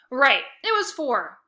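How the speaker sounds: slow, loud sarcastic jab; mocking sarcasm. A narrator's reading. Otto mocks his sister's flunked tests, slow and sarcastic. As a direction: rub it in.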